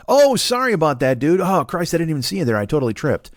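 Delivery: badly faked innocent accident; fake apology. Guy who pretends to fall on someone, mock apologetic. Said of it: "pretends to fall on you".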